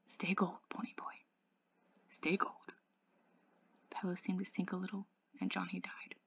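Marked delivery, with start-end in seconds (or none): 0.1-2.7 faint, halting dying words; barely audible. A narrator's reading. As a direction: murmur it with long pauses, fading. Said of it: "leaned over to hear what he was going to say".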